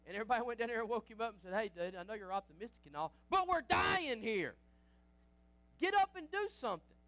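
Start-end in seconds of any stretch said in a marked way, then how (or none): 1.5-7.0 panicked sailors. Retold or imitated. Sailors shouting at Jonah to wake, loud panicked cry. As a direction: yell it like sailors about to sink.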